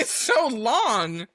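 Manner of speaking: "so long" stretched out slowly; drawn-out emphasis. Real, not acted. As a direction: drag out "so long" in exasperation. Exaggerates how long the names are.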